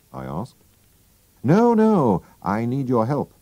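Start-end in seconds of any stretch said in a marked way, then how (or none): 1.4-3.3 high, quick insistence; Holmes voice. Acted. Holmes telling Watson to stay, insistent. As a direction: stop him kindly but firmly.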